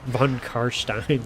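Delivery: Von Karstein said slowly with a "sht" in Karstein; slow, deliberate Von Karstein as "Von Karsh-tine"; drawn-out name pronunciation. Shown as a demonstration. Trying out the name's pronunciation.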